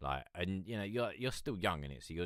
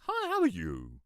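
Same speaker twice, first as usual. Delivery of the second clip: higher, louder squeaky greeting; mock high voice; 11 semitones higher, 6 dB louder than usual. Recalling his voice before it dropped, mock high. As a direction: pipe it up like a boy. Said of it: "all of a sudden I was like".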